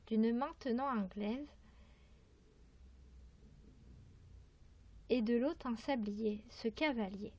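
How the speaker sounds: measured verse reading with pauses between lines; poetry recitation. Acted. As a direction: recite the poem phrase by phrase. Reads a poem aloud.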